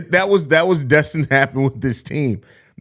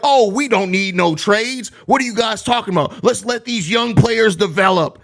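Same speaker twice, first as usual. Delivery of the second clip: sing-song parody of a calm fan; mock patient fan; 6 semitones higher than usual. Streamer mocks fans who want no trades, sing-song mockery. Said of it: "And it's like".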